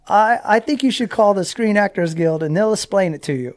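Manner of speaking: mimicked agent, starting high and settling down; imitated phone agent. Agent sends racer to the actors guild, lightly imitated. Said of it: "And she's like".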